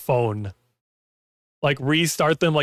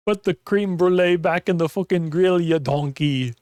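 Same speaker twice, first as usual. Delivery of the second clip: put-on British accent; 4 semitones higher than usual. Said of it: "I wish I could do a better British accent".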